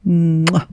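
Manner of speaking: a smacking kiss; kiss sound. A narrator's reading. Kiss in the tunnel.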